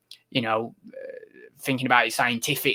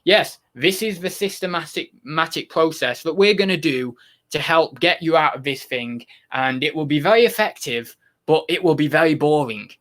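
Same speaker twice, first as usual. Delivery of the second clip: lightly voiced droning psychologist; a hint of a dull clinical therapist reading out a plan; mock psychologist. Viewer imagining a psychologist, lightly mocked clinical drone. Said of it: "imagine going to a psychologist".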